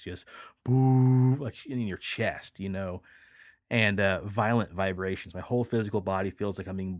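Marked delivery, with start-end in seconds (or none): 0.0-1.4 loud mock booming bass; imitated deep bass boom. Copying the bass hitting his chest, loud boom. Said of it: "way too high a bass".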